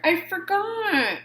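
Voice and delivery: high, slow sheepish admission. A narrator's reading. Shark apologizing to friends, sheepish. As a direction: own up like a caught kid. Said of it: "said Clark".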